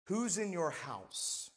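"Who's in your house" said slowly and evenly, falling at the end; unhurried "Who's in your house", let it land; measured title announcement. Real, not acted. Preacher announces sermon title.

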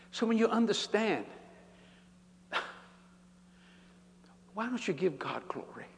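breathy whispered challenge; hushed whispered question. Real, not acted. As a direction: drop to a whisper to the congregation.

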